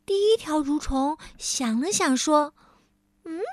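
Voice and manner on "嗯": 高高的细虫子声; 用尖尖的虫子声慢慢下结论; 尖声的小蠕虫. Acted. First worm, high voice. (第一条蠕虫想了想对同伴说)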